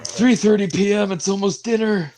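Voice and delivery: put-on high, fussy old geezer; old man voice. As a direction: complain like an impatient grandpa.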